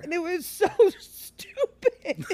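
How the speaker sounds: high, drawn-out words through laughter; laughing at oneself. Real, not acted. Admitting the underwear theft was stupid, laughing. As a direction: crack up on "stupid".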